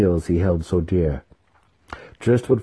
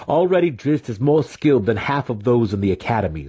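quick pleading; 5 semitones higher than usual. A narrator's reading. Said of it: "Zack continued quickly".

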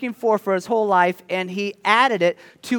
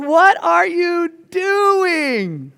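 baffled friends; 10 semitones higher, 3 dB louder, much slower than usual. Pretend.

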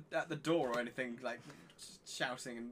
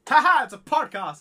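loud, much higher burst of laughter, then the punchline; 12 semitones higher, 21 dB louder than usual. Real, not acted. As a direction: laugh out loud at your own joke. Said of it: "laughing at own joke".

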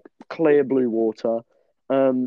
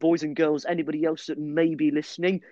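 grand entrance announcement. Acted. Podcast host opening the show.

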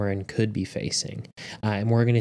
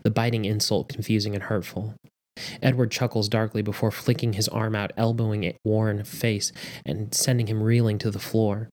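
measured audiobook narration; story narration. A narrator's reading. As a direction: read the story aloud with steady drama. Reads story aloud.

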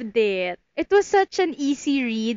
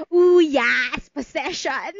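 mock excited cheer; slower than usual. Reader cheering the possession scene to pop music, laughing. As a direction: cheer it like a hammed-up fan. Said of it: "So, like".

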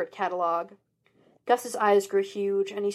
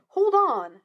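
loud protest; 10 semitones higher, 5 dB louder than usual. A narrator's reading. Sean protesting his father.

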